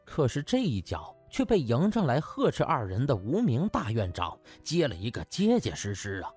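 ordinary delivery, nothing marked

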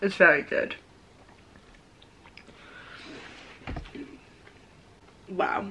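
muffled behind hand; talking with mouthful; chewing, hand over mouth. Real, not acted. Seen 1: Chewing after bite; hand covers mouth from 2.1 during speech.

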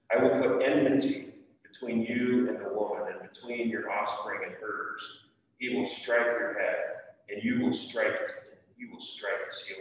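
reading the Bible aloud to the class, firm and clear; scripture reading. Acted. Teacher reads Genesis aloud to the children, steady reading voice. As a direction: read it like a lesson for kids.

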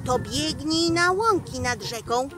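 stern devil's warning, rising at the threat; devil scolding. Acted. (diablik surowo ostrzega lisa)

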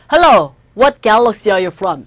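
alien greeting. Acted. Teacher acts alien greeting.

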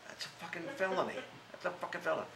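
replayed angry outburst, pitched high; high, heated retelling of lost temper; retold outrage. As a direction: relive the fury at the hidden tape recorder. Retold fury at hidden recorder.

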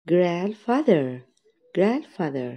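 Grandfather said with the d dropped, ranfather; silent d. Shown as a demonstration. Teacher to kids, Grandfather with the d dropped. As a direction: model Grandfather for kids with no d sound. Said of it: "ما نطقتش حرف الدي".

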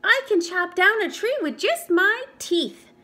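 high, loud proud boast; boasting high and loud to the forest friends; crowing beaver. Acted. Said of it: "Beaver crowed".

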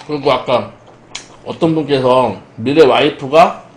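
chewing between words; talking while eating; mouth full of pizza. Real, not acted. Seen 1: Bites pizza just before, cheeks working early; mouth clear later.

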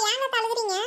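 normal talking voice

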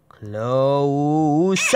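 breathless high "close"; real relief. Real, not acted. Gamer after a near miss, shaken and excited.

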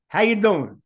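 New York Queens accent greeting. Shown as a demonstration. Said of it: "start off with the Queens accent".

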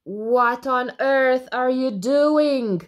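slow, loud appalled question; aghast, word by word; gasped. Acted. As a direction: draw it out in shock. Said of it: "she gasped".

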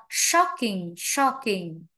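"shocking" with an open short O; SHOCK-ing, model "shocking" without an OH; correct vowel. Shown as a demonstration. Teacher corrects a student's vowel, correct vowel. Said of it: "no O".

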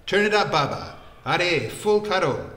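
high, loud excited call; crying out. A narrator's reading. Vikram calls to the juice wala, excited shout. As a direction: holler it across the stall, stretching the last words. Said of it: "Vikram cried out".

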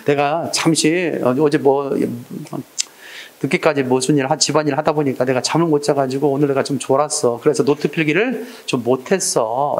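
lightly played self-reproach, slowing at the end; self-blaming. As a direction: own up humbly in a low voice. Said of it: "자기를 먼저 비난하는 거야".

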